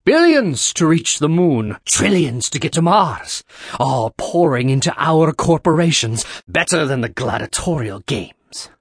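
stretched, half-shouted oration easing off at the end; shouting over din. A narrator's reading. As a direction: call it out over a noisy crowd. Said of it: "Jung was shouting over the din".

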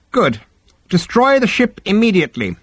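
very high-pitched, airy reply; unruffled psychiatrist. Acted. Psychiatrist brushing off the Vogon's complaint, unruffled. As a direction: play the unfazed therapist.

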